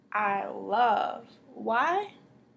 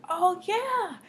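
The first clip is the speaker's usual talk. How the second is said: mock an excited pastor; 10 semitones higher than usual. Teacher imitates a pastor excited at the pulpit, gushing. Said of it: "pastor is up there all excited".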